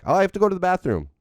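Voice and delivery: put-on high, fast whiny kid voice. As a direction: whine it like a stalling child. Kids stalling at bedtime.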